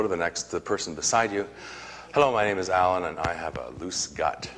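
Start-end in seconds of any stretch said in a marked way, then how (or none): 2.1-4.5 laughing demo. Shown as a demonstration. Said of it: "I invite you to say hello".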